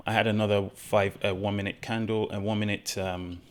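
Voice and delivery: slightly shaky, unsettled voice. Real, not acted. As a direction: voice shaking a little from nerves. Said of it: "my voice is shaking because of how I felt".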